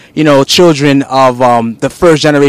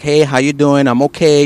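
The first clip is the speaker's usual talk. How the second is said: calm, softer proper-English greeting; 2 semitones lower, 3 dB quieter than usual. Shown as a demonstration. Host showing his calm proper-English side, softly. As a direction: keep it quiet and polite. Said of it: "very calm".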